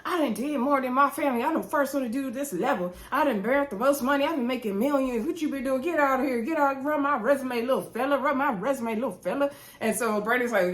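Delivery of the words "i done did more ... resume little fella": retold indignant boasting. Acting out Anthony's boast in quarrel.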